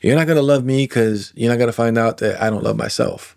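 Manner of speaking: mock casual pushing a friend away; dismissive brush-off. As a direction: shrug someone off casually. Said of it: "be like".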